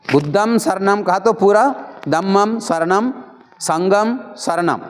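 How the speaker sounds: "बुद्धं शरणं ... धम्मं शरणं ... संघं शरणं" with matching nasal ends, slowing at the end; model recitation. Shown as a demonstration. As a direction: recite all three refuges the same way. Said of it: "ऐसे बोलना चाहिए".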